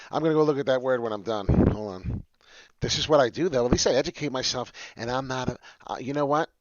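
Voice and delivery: loud and fast; excited. Real, not acted. Excited self-defense, laughing.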